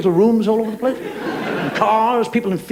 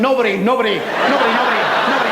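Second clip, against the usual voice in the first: mock atheist moan; 3 semitones higher, faster than usual.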